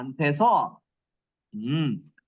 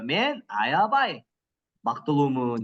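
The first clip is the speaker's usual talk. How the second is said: Мен аябай said slowly and carefully; slow translation; 5 semitones lower, much slower than usual. Shown as a demonstration. Teacher slowly translating the example. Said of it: "행복해요 депса".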